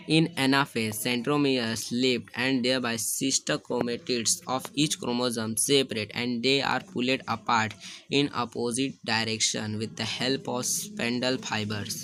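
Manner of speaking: reading the textbook line out word by word, very slowly; slow dictation. Shown as a demonstration. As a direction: dictate it slowly so students can write. (धीमे-धीमे notes लिखवाते हुए)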